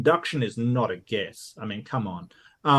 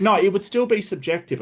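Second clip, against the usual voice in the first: a halting mock Southern twang; Texas-Alabama accent; 8 semitones higher, 5 dB louder than usual. Streamer tries a Texas-Alabama accent on a reluctant dare. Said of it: "between Texas and Alabama".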